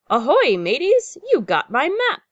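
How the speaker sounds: high, loud pirate greeting; storybook toad calling out; toad's hearty hail. A narrator's reading. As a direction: hail the crew from the beach. Toad hails arriving pirates.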